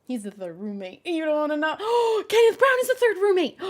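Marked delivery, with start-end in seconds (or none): 1.8-3.6 higher and louder, gasping announcement; hammed-up dramatic reveal. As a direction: unveil it like a shocking secret.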